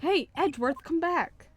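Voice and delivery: loud, high-pitched holler; calling out. Acted. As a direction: call him back urgently. Calling after departing Edgeworth in game.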